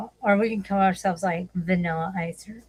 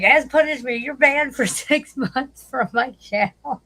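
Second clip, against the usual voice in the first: high, mocking imitation breaking into a laugh; mock punishment decree; 5 semitones higher, 3 dB louder, slower than usual. Retelling his ban from the channel, mock punishment decree. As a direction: hand down a ban in a raised mimicking voice. Mimics banning pronouncement, laughing.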